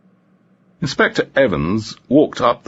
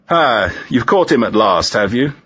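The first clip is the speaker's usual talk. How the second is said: put-on Italian accent; 4 semitones higher, 3 dB louder than usual. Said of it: "joked the small man in an unmistakably Italian accent".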